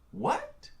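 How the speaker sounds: high squeaked disbelieving "What?"; incredulous squeak; shocked what. Real, not acted. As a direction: react in stunned disbelief, pitch jumping up. Shocked reaction to quote.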